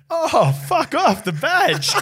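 high, drawn-out cry of recognition; mock exclamation. Teammate spotting the referee in the car park, mock high holler. Retelling Mace greeting the referee.

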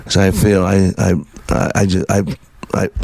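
choked up, words stalling on I; real emotion catching the throat, stumbling; getting emotional. Real, not acted. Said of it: "I'm gonna get emotional".

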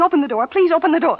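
pressing, rising plea; urgent pleading. Acted. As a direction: beg him to open it now. Begging him urgently.

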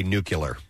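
nuclear said "NOO-kyuh-ler"; mocked mispronunciation. Shown as a demonstration. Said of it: "people who say nuclear".

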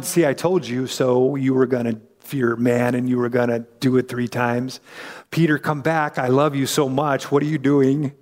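a hint of a loving rebuke; gentle Jesus. Jesus looking at Peter, low and tender. Jesus' look put into words.

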